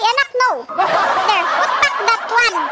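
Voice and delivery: a light, laughing put-on English scolding, slowed; lightly hammed-up English order to the child; mock English-speaking mom. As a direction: pretend to boss the kid in stiff English. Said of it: "Bow English".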